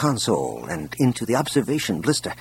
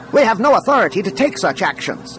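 raised, high-pitched protest; loud objection; 9 semitones higher than usual. A narrator's reading. Technician objects over a dozen conversations, loudly. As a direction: project over a babble of voices. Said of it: "loud enough to be heard over".

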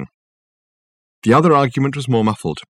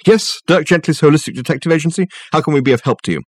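higher, businesslike phone greeting; detective on the phone; 7 semitones higher, faster than usual. Acted. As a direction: recite the agency greeting smoothly.

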